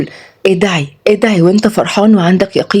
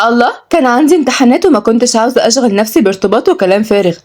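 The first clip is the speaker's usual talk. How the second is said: higher, irritated protest; annoyed; 5 semitones higher than usual. Acted. Young woman defends delaying the engagement, annoyed. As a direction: push back with annoyance. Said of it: "ردت وعد بضيق".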